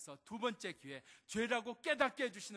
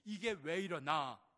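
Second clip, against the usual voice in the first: dumbfounded; 5 dB louder, slower than usual. Retold or imitated. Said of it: "형들이 기가 막혀서".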